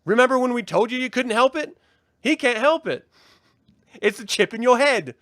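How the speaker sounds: high, loud mock Kiwi girl; imitated Kiwi accent. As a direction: parody a chirpy Kiwi girl reading lines. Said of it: "read it in your Kiwi accent".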